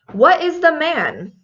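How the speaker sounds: puzzled rising "What is the man?" with the stress on "the"; teacher mocks the common wrong answer; wrong version. Shown as a demonstration. Teacher acts out the wrong question, puzzled. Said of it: "That was the most common wrong answer".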